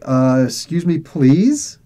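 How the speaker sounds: pointedly polite excuse-me, ending on a rising please; hesitant lead-in, then a questioning please; pointed polite request. Retold or imitated. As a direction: ask politely with an incredulous edge. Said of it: "literally like that".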